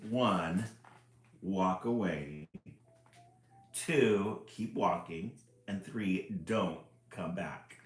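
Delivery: loud, slow, exasperated book voice; cranky instructions. Acted. Book ordering the reader away, exasperated. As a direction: spell it out like a fed-up grouch.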